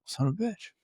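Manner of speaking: high, mock-exasperated curse, tossed off softly. Clinician catching his own mistake, mock-exasperated curse. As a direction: play the clinician who just realized he missed it. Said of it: "And you're like".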